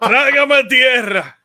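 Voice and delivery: loud, drawn-out cry of shame; mock mortified cry. Real, not acted. Friend reacting to the dead-air story, loud mock despair. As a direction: wish the floor would swallow you.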